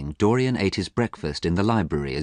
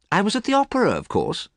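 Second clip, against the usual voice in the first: bored. Acted. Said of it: "Dorian sounded very bored".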